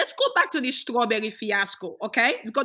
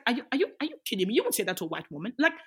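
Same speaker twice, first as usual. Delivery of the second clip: louder, rising mock outrage; building indignant retort, ending high; retold indignant rant; 3 semitones higher, 3 dB louder than usual. Retorting to racist official.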